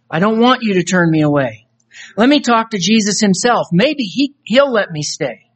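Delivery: earnest spoken-word poem read; recited poem, voices of soul and Jesus; dramatic poem recitation. Acted. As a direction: perform the poem like a testimony. Recites a poem about judgement.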